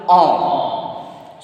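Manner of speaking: "on" as one nasal French vowel. Shown as a demonstration. Teacher names what two letters form, nasal "on". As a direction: isolate "on" through the nose. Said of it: "forming nasal vowel sound".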